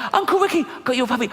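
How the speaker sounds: high-pitched, squeaky excited delivery; mock excitement. Uncle rushing in to his niece with a puppy, mock excited.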